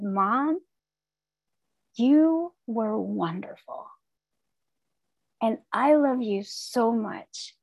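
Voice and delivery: tender reassurance. Retold or imitated. Tender words to her mother.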